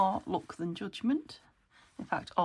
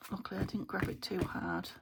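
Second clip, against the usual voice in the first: hiccuping while talking; hiccups. Real, not acted. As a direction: speak between hiccups. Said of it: "Sorry, I'm hiccuping here".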